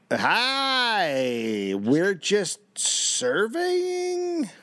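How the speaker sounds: high, very slow timid voice; meek and drawn out, scared; nervous surveyor. Acted. Surveyors meekly greeting militia.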